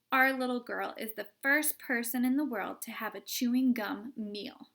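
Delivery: loud, hearty encouragement; proud cheering dad. Acted. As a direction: cheer her on, beaming.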